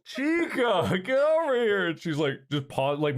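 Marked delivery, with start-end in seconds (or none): 0.0-1.9 high-pitched call across a yard; calling the dog. Retold or imitated. Owner calling her dog from out front, calling out. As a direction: call out to summon a pet. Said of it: "I just call".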